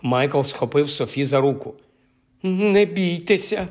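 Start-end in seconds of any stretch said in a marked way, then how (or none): 2.4-3.7 slow, higher, shaky-voiced reassurance; steady them while your own voice trembles; trembling voice. A narrator's reading. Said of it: "тремтячим голосом проговорив він". (тремтячим голосом, повільно)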